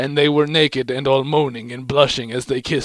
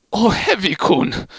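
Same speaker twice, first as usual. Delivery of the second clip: slow, higher hammed-up moan; mock moan; 7 semitones higher, 4 dB louder than usual. A narrator's reading. Medic moaning to Heavy, slow hammy moan. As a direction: draw out the name in a mock moan. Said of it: "Medic moaned".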